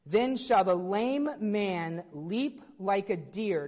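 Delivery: slow, weighty scripture read. Shown as a demonstration. Pastor quoting Isaiah to the church, slow and solemn. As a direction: read the verse slowly and solemnly. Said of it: "and it says".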